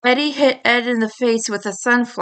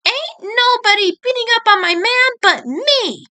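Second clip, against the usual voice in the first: growled; 12 semitones higher than usual. Acted. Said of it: "Marie growled".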